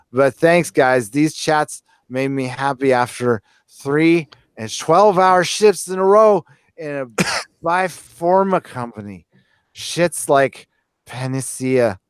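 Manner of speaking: put-on lightly slurred drunk reading. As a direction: read it like a tipsy guy. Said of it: "I'll do drunk voice".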